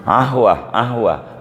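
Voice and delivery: "Ahwah" with the qaf dropped to a glottal stop, Egyptian style. Shown as a demonstration. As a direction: say "Ahwah" like a Cairo local. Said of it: "qaf tuh jadi ain". ("Ahwah" gaya orang Mesir, qaf jadi hamzah)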